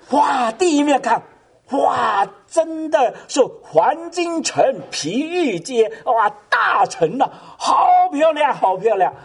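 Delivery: high, drawn-out cries of amazement; retelling a man's first look at heaven, with awe; awed wonder. Retold or imitated. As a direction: gasp at the golden city like a man seeing it first. Awestruck man arriving in heaven.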